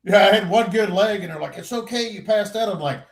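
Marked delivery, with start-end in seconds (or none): 1.6-2.7 high-pitched mock reassurance; imitated reassurance. Helpers telling him he fainted, high mock reassurance.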